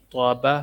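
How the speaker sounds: "توبہ" with a heavy, rounded first syllable; "توبہ" opening on a full, emphatic T; thick, heavy To. Shown as a demonstration. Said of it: "تو کو موٹا پڑھیں گے".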